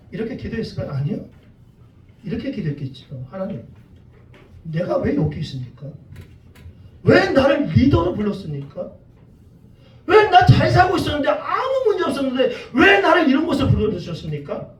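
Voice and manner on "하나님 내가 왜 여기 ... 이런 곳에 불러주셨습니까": acted complaint. Preacher as Moses asking God why he was called, complaining. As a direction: plead and protest to God, voice climbing with each question. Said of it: "모세도 똑같은 원망을 했을 거란 말이에요".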